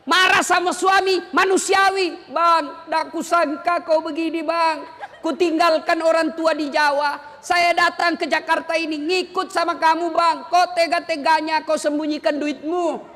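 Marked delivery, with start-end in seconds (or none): 2.3-13.0 a lightly voiced wife scolding her husband, hurt more than furious; mild hurt reproach to her husband; complaining wife. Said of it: "Boleh marah seperti itu". (istri menegur suami dengan nada kecewa)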